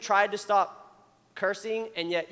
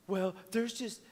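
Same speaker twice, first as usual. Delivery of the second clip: put-on complaining girl; 9 dB quieter than usual. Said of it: "this is a girl".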